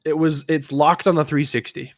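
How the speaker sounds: ordinary delivery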